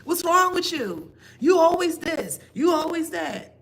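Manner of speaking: high, loud accusing voice; mock loud accusation. Imitating someone blaming you, high and loud. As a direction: ham up the person blaming you. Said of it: "And it's like".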